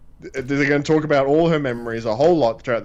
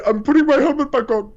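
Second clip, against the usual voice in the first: mock earnest; 12 semitones higher, 4 dB louder than usual. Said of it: "You should say".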